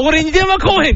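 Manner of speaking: high whiny lament, played for laughs; mock crying. Imitating a skater who waits for the call, mock whining. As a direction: whimper it up high as a sulking man. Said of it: "って泣いてるで".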